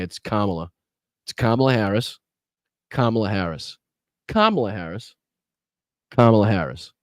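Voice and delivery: Kamala stressed firmly on the first syllable, KAH-muh-luh; correct pronunciation. Shown as a demonstration. Host correcting how Trump says her name, firm KAH-muh-luh. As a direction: say Kamala as COMMA-la, low and definite. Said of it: "You say her name one, one way".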